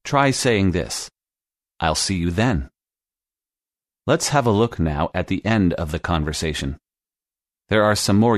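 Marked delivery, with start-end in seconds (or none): 1.8-2.7 "then" leaned on with a falling close; stress on then. Shown as a demonstration. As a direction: land firmly on "then" to make the time definite. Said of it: "Notice how the stress is on the word "then".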